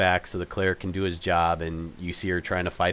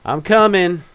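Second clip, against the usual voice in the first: startled mother; 8 semitones higher, 9 dB louder than usual. Acted. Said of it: "you hear her say".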